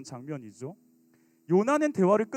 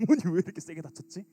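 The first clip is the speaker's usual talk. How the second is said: put-on startled teen; 4 semitones lower, faster than usual. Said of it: "들어가서는 놀래잖아".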